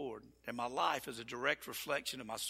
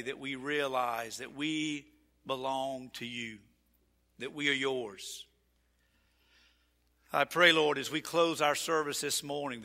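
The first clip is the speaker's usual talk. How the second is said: closing prayer. Real, not acted. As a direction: pray it over the congregation.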